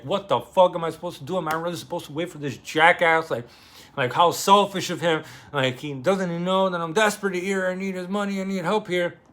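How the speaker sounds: mildly hammed-up desperate plea. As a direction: voice a man at his wits' end. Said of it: "Dimitri's just in pure desperation".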